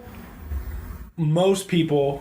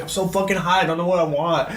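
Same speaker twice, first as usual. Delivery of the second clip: stoned friend. Retold or imitated. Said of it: "Jesse was just so stoned".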